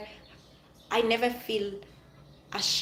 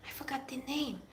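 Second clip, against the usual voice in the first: whispered to herself; under-breath aside as the word escapes her; 3 semitones higher, 12 dB quieter than usual. Real, not acted. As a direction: whisper it while searching your memory. Trying to recall a name, aside.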